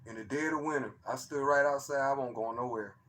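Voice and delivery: soft, low-voiced telling; talking low. Real, not acted. Telling the chat about the night he recorded it, talking low and soft. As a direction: keep it hushed, almost to yourself. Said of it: "I don't know why I'm talking so, so low".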